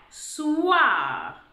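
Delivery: "Soir" stretched long, sounds blended s-ou-ar; drawn-out word. Shown as a demonstration. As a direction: stretch "Soir" slowly so every sound is heard. Teacher blends the sounds together.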